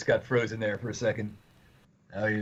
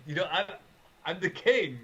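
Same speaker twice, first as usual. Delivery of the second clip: higher-pitched mock royal protest; protesting king; 5 semitones higher than usual. Joking that nobody respects him, mock-plaintive king. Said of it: "and he's just like".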